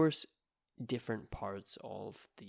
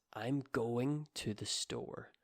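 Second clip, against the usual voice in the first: going stressed, the rest light. Shown as a demonstration. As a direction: lean on the word going. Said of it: "the word going is stressed".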